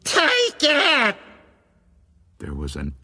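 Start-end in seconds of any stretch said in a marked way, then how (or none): 0.0-1.2 piercing shout, far higher and louder; defiant yell; shouting just as loud. A narrator's reading. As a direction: fling it back at the ghost at full voice. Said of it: "In a voice just as loud, she shouted".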